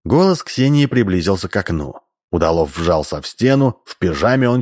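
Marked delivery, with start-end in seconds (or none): none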